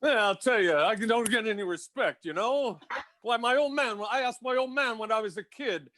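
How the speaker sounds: lightly voiced put-upon comic; grumbling no-respect comic, lightly done; Rodney impression. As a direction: do a hint of an old-school one-liner comedian. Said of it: "Bring, bring me Rodney".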